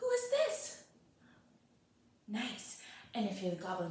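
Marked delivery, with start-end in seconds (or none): 0.0-0.8 shocked, startled, very high cry. Showing a class how Lily reacts to a goblin appearing: shocked. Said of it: "can you be shocked?".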